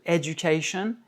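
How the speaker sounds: education with the stress on CA; English "education", long KAY before -shun; English word stress. Shown as a demonstration. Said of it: "le A est accentué".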